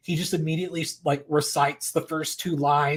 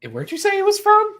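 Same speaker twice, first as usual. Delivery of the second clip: much higher, amazed voicing of the partner; imitating the amazed Scottish boyfriend; mock Scottish partner; 6 dB louder than usual. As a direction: squeak it out in disbelief. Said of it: "he's like".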